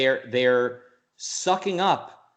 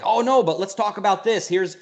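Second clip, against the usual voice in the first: eager excitement; 4 semitones higher than usual. Retold or imitated. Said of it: "I want to see a certain excitement".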